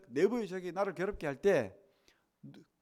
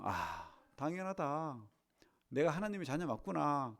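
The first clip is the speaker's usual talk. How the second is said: calm inner thought; 4 dB quieter than usual. Shown as a demonstration. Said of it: "우리는 이렇게 생각해야 됩니다".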